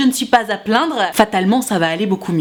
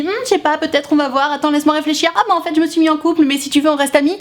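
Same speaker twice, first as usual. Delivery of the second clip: higher, mock-coy dithering voice; mocking a stalling crush; 5 semitones higher than usual. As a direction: parody someone keeping you on hold. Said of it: "qui te dit".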